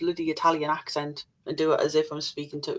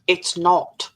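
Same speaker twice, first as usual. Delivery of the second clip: clipped, a bit louder, mock-cross denial; mock angry; 5 dB louder than usual. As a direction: snap it out like you're fed up, half in jest. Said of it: "That was so angry".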